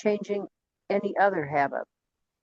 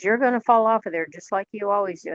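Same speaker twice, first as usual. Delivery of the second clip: lightly voiced critical parent, higher and quicker; nagging critical parent; 4 semitones higher, 4 dB louder, faster than usual. Critical parent kicking in to scold, nagging. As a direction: nag like a fault-finding parent, a touch faster. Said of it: "start nagging at us".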